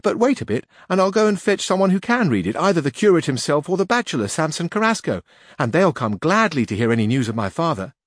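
put-on high, bright young village girl voice. A narrator's reading. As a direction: voice her as an eager young girl. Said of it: "said Sanchica".

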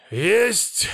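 high, crisp call; familiar's answer. A narrator's reading. Familiar answering about a shortcut, high and eager. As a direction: pitch the reply up eagerly. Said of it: "ответил тот".

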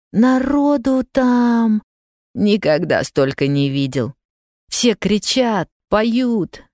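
put-on eager boy recounting, pitch lifting on кричат, поют; excited telling. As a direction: tell it like a proud pupil answering homework. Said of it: "Вовка рассказывал громко, немного восторженно". (мальчик восторженно рассказывает бабушке о празднике)

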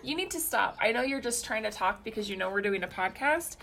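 firm parental scolding; stern mom voice. Real, not acted. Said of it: "That was super momish".

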